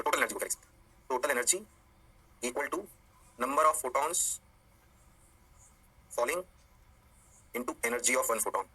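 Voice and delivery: slow dictation with long pauses; low, unhurried teaching pace; slow, deliberate. Real, not acted. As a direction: spell it out phrase by phrase for students. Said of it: "धीरे-धीरे बोल रहा हूँ".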